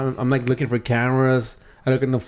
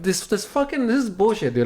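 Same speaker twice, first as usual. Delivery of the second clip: retold fuming; 6 semitones higher than usual. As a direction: grumble it high, replaying your indignation. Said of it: "I'm fuming at Jenkins".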